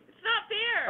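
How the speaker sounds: whining shout. Real, not acted. Complaining about footsteps.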